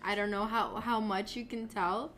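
hoarse from a cold; sick voice. Real, not acted. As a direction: talk through a sore throat. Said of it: "my throat is all fucked up".

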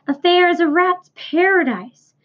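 a lightly voiced old sheep tempting the rat.

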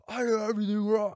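high, loud, fast mock scream; screaming Nicolas Cage. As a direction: rush out an imitation of a screaming rant.

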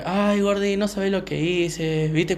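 put-on casual girlfriend act. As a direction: imitate her chatting as if nothing happened. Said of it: "volví así como si nada".

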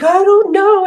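high, small voice of a crying child, lightly imitated; little girl's reply. Therapist voicing a crying girl who can't explain, small and high. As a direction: play the girl, helpless and a bit teary.

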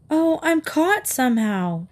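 a lightly voiced embarrassed girl; embarrassed mutter. A narrator's reading. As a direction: admit it awkwardly. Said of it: "Katy muttered, embarrassed".

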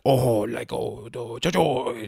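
mock eighties-movie Asian accent in broken syllables; fumbled imitation of a stereotyped Asian accent; half-hearted caricature of an Asian accent; stereotypical Asian accent. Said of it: "Asian accent".

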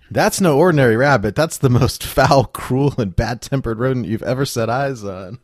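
a light, self-mocking Scottish accent; bad Scottish accent. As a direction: read the Scottish quote half-laughing. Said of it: "read it in your best Scottish accent".

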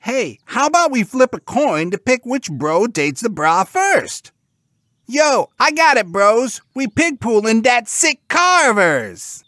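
high, loud scheming pig bros; hyped-up squeaky cartoon pigs; excited pigs. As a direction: pitch your idea in an eager squeal. Pigs scheming over date.

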